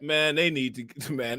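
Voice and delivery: ordinary delivery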